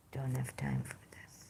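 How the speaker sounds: whispered under the breath, dismissive; whispered aside. Real, not acted. Speaker to viewers, brushing off petty complaints, whispered aside. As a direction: toss it off in a whisper.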